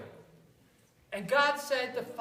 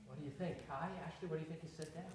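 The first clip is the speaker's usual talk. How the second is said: ordinary talk, nothing marked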